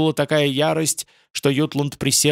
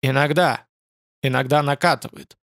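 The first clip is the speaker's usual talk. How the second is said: growling demon voice. Acted. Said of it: "страшный голос прорычал". (рычащий демонический голос)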